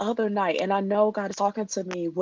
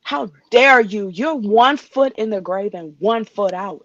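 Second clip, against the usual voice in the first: indignant ranting; 5 dB louder than usual. Real, not acted. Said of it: "I'm sorry I'm ranting".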